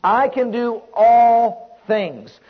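steady, emphatic declarations one by one; rhythmic faith confession; preaching litany. Acted. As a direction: build conviction line after line.

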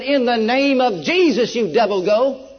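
loud, slow command to the devil; commanding rebuke. Retold or imitated. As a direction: cast it out with full authority. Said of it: "I shouted out with a voice".

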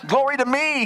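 high loud cheer; God cheering, high and loud. Acted. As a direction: shout it up in celebration. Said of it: "he's probably saying".

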